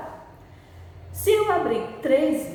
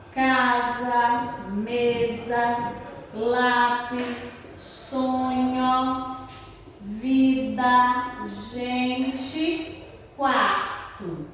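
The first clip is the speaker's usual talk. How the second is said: each word set apart with a pause; teacher listing two-syllable words; word list read aloud; much slower than usual. Shown as a demonstration. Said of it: "reading list of example words".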